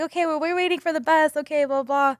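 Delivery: put-on casual excuse; retold polite excuse. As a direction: act out fobbing someone off.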